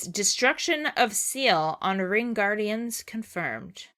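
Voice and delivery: slow, lightly voiced robot announcer; a hint of an old machine voice; old rusty robot. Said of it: "And we get the voice".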